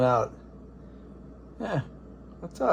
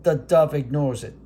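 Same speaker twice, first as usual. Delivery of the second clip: Howard Cosell. Acted. Announcing the robin and dove rivalry as a hammed sportscaster. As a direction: build the bird standoff like a title bout. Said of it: "This is Howard Cosell".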